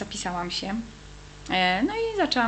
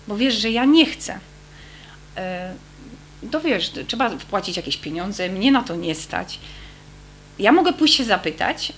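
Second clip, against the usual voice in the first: pleading prayer; 5 dB louder than usual. Retold or imitated. Retold prayer bargaining with God.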